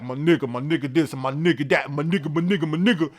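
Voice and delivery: mock rapper slang, lightly voiced; imitating rappers. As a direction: toss off the repeated phrase like a rapper. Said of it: "if you're in hip hop and you all like".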